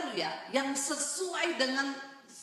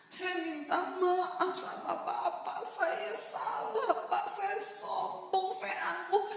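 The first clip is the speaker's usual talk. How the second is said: higher, slow pleading through tears; tearful apology; 8 semitones higher, slower than usual. Retold or imitated. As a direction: beg forgiveness while choking up. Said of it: "Saya dengan berlinang air mata".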